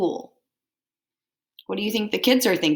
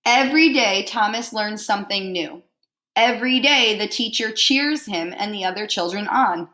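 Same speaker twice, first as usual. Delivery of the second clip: lively picture-book read-aloud; reading to children. Acted. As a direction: read it out warmly to a class.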